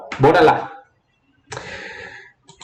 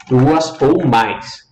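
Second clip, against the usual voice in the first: "Duas ou mais" drawn out word by word; slow down and spell out "Duas ou mais"; slow emphasis; much slower than usual. Shown as a demonstration. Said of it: "Duas ou mais sílabas". ("Duas ou mais" bem devagar, palavra por palavra)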